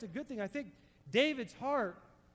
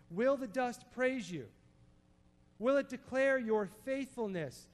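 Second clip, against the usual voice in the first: earnest, slightly raised plea in David's words; crying out to God. Retold or imitated. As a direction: read it as a mild cry for help. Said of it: "David just crying out to God".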